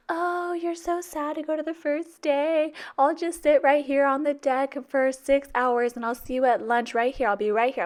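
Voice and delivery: high, slow, mocking whine of a clingy parent. Teacher mocking a lingering parent, high whiny voice. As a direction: play the parent who won't leave, sweetly pathetic.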